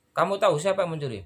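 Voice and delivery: fast, sharp questioning; quick pressing question. Shown as a demonstration. Security officer to suspect, fast and pressing. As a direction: fire the question off fast like an interrogator. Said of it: "intonasi terus gaya saya bicara".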